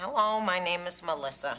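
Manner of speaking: toned-down delivery, edge taken off, pitch very low. Demonstrating how to say the answering machine greeting, in a softer voice.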